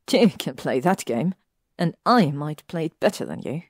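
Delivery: challenging. Acted. Hermione poking Draco in the chest, defiant challenge. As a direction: throw down the gauntlet. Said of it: "poked him in the chest and challenged".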